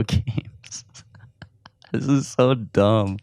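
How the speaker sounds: whispered, slow, with little laughs; giggly whisper. Real, not acted. Podcaster mocking himself to his listeners in a slow giggly whisper. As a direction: breathe it out like a giggling secret. Giggling self-mockery into mic.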